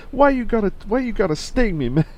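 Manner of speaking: very high, loud mock monkey wail; imitated comic monkey voice. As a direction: wail it as a put-upon cartoon monkey. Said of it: "he started doing this voice".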